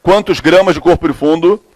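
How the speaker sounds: slow, measured dictation with long pauses; classroom dictation. Real, not acted. Teacher dictating a chemistry question to students, slow dictation. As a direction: dictate phrase by phrase, stretching the words.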